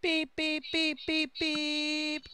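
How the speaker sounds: mild mock-screamed robot beeps. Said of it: "Screamed the car in a robot voice".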